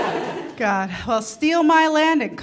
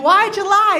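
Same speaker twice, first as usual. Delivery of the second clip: cheeky; 8 semitones higher, 5 dB louder than usual. Retold or imitated.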